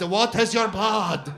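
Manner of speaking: insistent shopkeeper. Retold or imitated. Doner guy presses customer on descent, loud demand. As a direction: push the repeated question harder. Repeats demand louder and higher.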